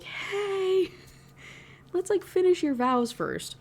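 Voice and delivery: high-pitched, drawn-out mock "hey"; awkward interrupting. Priest interrupting a couple making out, high and tentative. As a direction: pipe up high to cut in politely.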